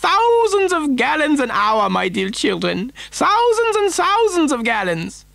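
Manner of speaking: high, slow, drawn-out showman's boast; excitable factory owner. Acted. Factory owner boasting to the children, excitable and high-pitched. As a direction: sing out each word grandly, high and stretched.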